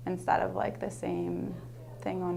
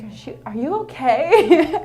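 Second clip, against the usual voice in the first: put-on higher, louder, laughing as the girls ask; laughing mimic of kids; 7 semitones higher, 12 dB louder than usual. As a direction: mimic them through a laugh. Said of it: "they're like".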